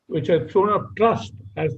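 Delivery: "trust" picked out firmly; stress on trust. Real, not acted. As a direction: underline the word "trust" with your voice. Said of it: "underline the word trust".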